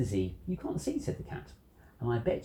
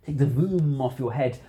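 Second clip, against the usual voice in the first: yelled order; 6 dB louder than usual. Acted. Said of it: "Then he yelled".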